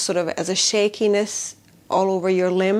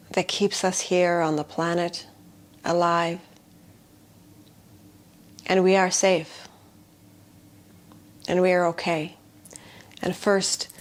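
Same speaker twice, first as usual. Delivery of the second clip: gentle, unhurried grounding voice with long pauses; guided meditation; 3 dB quieter than usual. Shown as a demonstration. Healer guiding listeners to feel safe, guided meditation. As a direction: guide them into feeling safe, leaving space.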